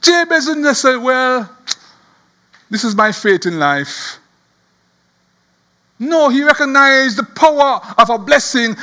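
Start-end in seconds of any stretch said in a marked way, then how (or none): 1.0-4.2 low, sinking resignation; resigned acceptance. Acted. What Jabez didn't say about his fate, resigned. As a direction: give in, as if nothing can change.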